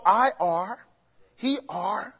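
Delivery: "I are, he are" tossed off as the wrong form; mock the wrong grammar lightly; wrong usage demo. Shown as a demonstration. Teacher shows the congregation ungrammatical usage, mildly mocking. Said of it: "You don't go".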